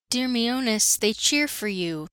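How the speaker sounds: called out across a noisy hall; shouted. Acted. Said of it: "Hagi shouted to me from across the table".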